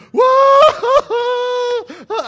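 high, loud hammed-up wail; wailing cry. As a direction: let out a huge overdone wail. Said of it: "they hear him crying like that".

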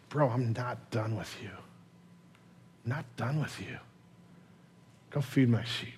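very soft, tender reassurance; gracious, forgiving. Acted. Jesus restoring Peter after his failure, gentle forgiveness. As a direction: reassure him quietly, with long pauses between phrases. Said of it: "in a gracious, forgiving".

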